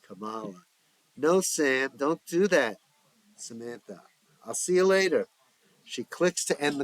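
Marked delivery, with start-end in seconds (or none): 1.2-2.8 urgent plea. Acted. Stopping friend taking pills. 4.4-5.3 breezy goodbye. Acted. Samantha cheerfully hangs up.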